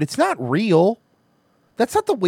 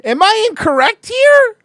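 sarcastic; 8 semitones higher, 6 dB louder than usual. Real, not acted. Mocking the news line.

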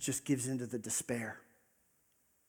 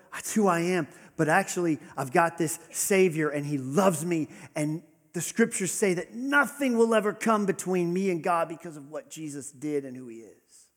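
defiant hope; 3 semitones higher, 4 dB louder than usual. Acted. Answering despair with faith.

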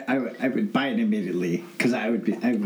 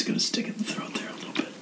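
whispered; 6 dB quieter, much faster than usual. Real, not acted. Reacting to hot sauce.

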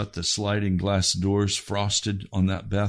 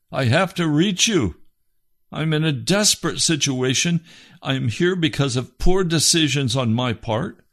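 retold desperate prayer, raised in pitch; desperate plea; 5 semitones higher, 4 dB louder than usual. Man on his face pleading to God, desperate. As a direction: plead urgently, pitch climbing and holding high. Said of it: "crying at the top of my voice to God".

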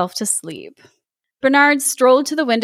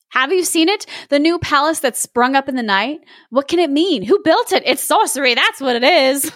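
excited gossip; 3 semitones higher than usual. Acted. Townsfolk gossiping about palace.

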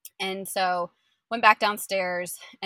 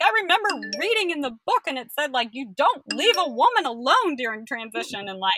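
higher, fast, whiny tearful protest; mock tearful complaint; 7 semitones higher, 7 dB louder than usual. Her emotional side whining about being left, higher. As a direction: complain like a forsaken child.

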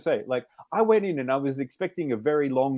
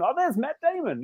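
much higher, light mock surprise; pleased recognition; 11 semitones higher than usual. Viewer noticing an actor in film, pleasantly surprised. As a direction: spot a familiar face. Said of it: "It's like".

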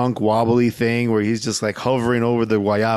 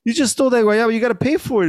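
mock angry demand; 10 semitones higher, much faster than usual. Demanding payment from thief.

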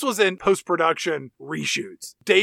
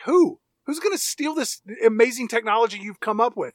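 incredulous; 4 semitones higher than usual. Retold or imitated. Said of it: "I'm like".

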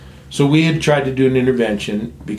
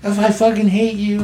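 retold angry yell; 9 semitones higher than usual. Brother yells over the dinner invitation, retold angry yell. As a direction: replay an angry outburst at family, pitched up. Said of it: "So I would yell at him".

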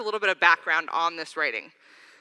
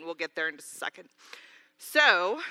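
breathless after dancing; slightly winded, catching breath; 2 semitones lower than usual. Real, not acted. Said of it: "I'm, like, out of breath from dancing".

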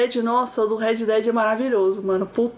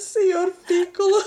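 laughing imitation; 7 semitones higher than usual. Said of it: "Fez igualzinho".

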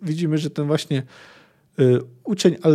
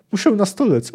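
put-on higher-pitched plaintive old man; lightly whining, pained plea; whiny groan; 6 semitones higher than usual. A narrator's reading. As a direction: announce it in a pitiful moan. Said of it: "oznajmił jękliwie".

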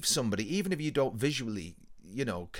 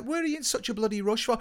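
retold challenge; 10 semitones higher, faster than usual. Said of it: "I was like".

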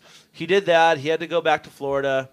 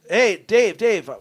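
calling out; 3 semitones higher, 3 dB louder than usual. Retold or imitated. Calling to wake a sleeping passenger.

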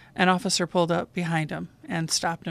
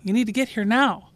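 higher-pitched urgent plea, retold; insistent, raised voice with mild urgency; more excited caller; 4 semitones higher, 3 dB louder than usual. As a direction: imitate a caller getting worked up. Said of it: "she was getting more excited".

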